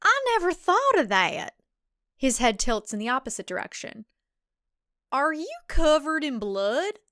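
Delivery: high, excited, rambling suitor; hopeless romantic, pleading; eager dorky guy. Acted. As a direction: babble it all out in one breath. Matthew's voice again.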